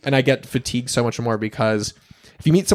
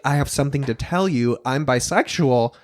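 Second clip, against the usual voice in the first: grave confession. Shown as a demonstration. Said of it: "don't say it like you have cancer".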